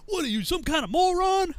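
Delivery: high-pitched, incredulous scolding; berating sergeant. Retold or imitated. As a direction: chew out a clueless recruit.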